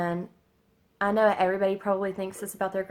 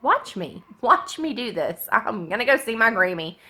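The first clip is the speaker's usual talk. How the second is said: firm and a bit louder, rising in pitch; mock-defiant retort to the doubters; 3 semitones higher, 6 dB louder than usual. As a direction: throw the challenge back at them. Defiant reply to doubting family.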